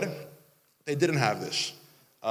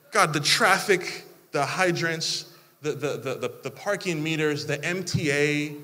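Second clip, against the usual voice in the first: mock complaint.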